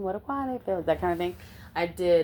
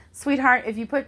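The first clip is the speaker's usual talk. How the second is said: lightly motherly, pitched a little up; 4 semitones higher than usual. Retold or imitated. Mother to a cold girl in jail, motherly advice. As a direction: gently instruct like a mom talking to her kids. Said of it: "I sounded like a mother".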